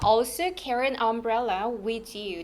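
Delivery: "carry an umbrella" run smoothly together, slow; linked sounds. Shown as a demonstration. Teacher shows a linking stretch, words joined in "carry an umbrella". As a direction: link "an" into "umbrella" and "with" into "you". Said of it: "다 연음 가는 구간".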